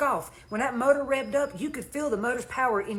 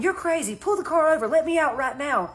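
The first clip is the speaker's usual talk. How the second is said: higher-pitched mock yell, little extra volume; retold yell; 5 semitones higher, 3 dB louder than usual. Passenger demands the driver pull over, retold mild yell. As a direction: imitate her yelling to be let out, without really shouting. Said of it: "She started yelling".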